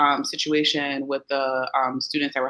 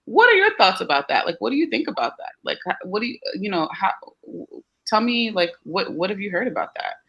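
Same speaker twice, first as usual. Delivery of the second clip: calm and collected; 5 semitones higher than usual. Shown as a demonstration. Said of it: "stay cool and calm and collected".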